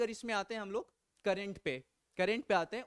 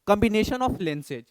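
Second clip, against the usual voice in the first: very slow, word by word, louder; slow dictation; 6 dB louder, much slower than usual. Real, not acted. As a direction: spell it out so students note it. Teacher dictating key topic. (धीरे-धीरे, शब्द-शब्द बोलकर लिखवाना)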